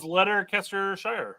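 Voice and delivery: Letterkestershire sounded out as spelled; literal mispronunciation. Shown as a demonstration. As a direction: say Letterkestershire as letter-kester-shire, full "shire" ending. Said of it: "I'd pronounce it as".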